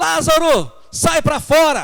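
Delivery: very loud, very high-pitched commanding shout. Preaching about the raising of Lazarus, acting out Jesus shouting. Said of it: "mas Jesus deve ter gritado".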